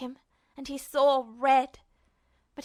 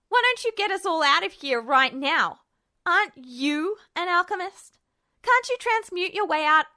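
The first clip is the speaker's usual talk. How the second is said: put-on raised, louder, higher angry boy; Ed's furious taunt; 4 semitones higher, 5 dB louder than usual. Ed taunts Justin, raised and furious. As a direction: jeer at him hard.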